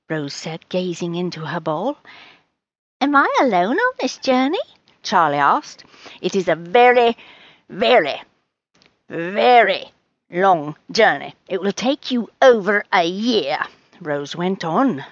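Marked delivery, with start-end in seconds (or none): 3.0-4.6 higher, quick cat question; anxious cat. Acted. Charlie asks Rose about his journey, high and quick. 6.2-13.6 each "very" set apart by long pauses; portentous fortune teller. Acted. Fortune teller reads the future.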